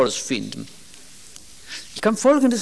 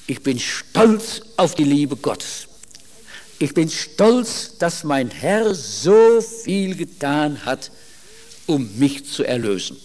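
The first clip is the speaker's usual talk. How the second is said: slow fervent confession; 3 semitones lower, slower than usual. Shown as a demonstration. Congregation's proud confession modelled.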